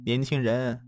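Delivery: long sigh. Acted. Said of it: "这个女的长叹一声".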